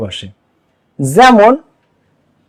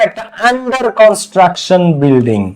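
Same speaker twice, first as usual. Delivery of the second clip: slow model phrase; much slower than usual. Shown as a demonstration. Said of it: "এখানে আ হইছে".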